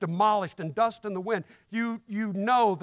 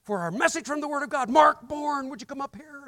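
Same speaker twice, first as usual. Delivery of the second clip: raised, louder emcee call to the stage; big-event emcee calling a name; announcing the speaker; 6 semitones higher, 6 dB louder than usual. Retold or imitated. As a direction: introduce the preacher like a host at a convention. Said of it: "he says".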